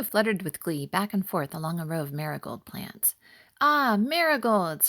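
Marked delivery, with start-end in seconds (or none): 3.6-4.9 higher, louder and slow, savouring the word; joyful exclamation. Acted. Butterfly delighted to find marigolds, joyful exclamation. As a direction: gasp with delight at the flowers. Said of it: "he exclaimed joyfully".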